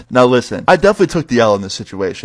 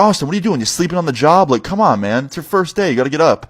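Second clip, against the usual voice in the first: higher-pitched mock boss telling-off; scolding boss; 6 semitones higher than usual. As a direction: imitate a boss chiding a slacker. Boss scolding sleeping new worker.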